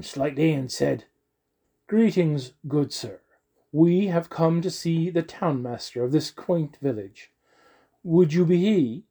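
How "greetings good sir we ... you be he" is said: lightly voiced courtly noble. Noble Lewis greets the doorman.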